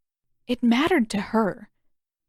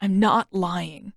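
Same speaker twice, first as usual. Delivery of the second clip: slow, stiff, guarded denial; slower than usual. Acted. Zuko denying his limp to Katara, stiff and slow. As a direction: deny it slowly, holding yourself rigid. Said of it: "his voice was stiff".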